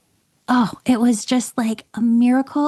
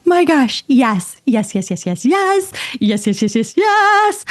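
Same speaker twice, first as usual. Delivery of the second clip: squealing yes after yes, pitch leaping high; overjoyed yeses at getting the MRI slot; freaking out; 5 semitones higher, 4 dB louder than usual. Real, not acted. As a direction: burst with thrilled disbelief. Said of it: "like, freaking out".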